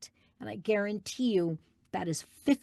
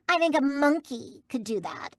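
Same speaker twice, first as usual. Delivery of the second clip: high, affected voice of a dismissive hygienist; dismissive hygienist impression; 7 semitones higher, 3 dB louder than usual. Hygienist belittling cartoon voice work, high mocking imitation. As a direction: mimic her breezy put-down, pitched up. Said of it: "it was the way that she said".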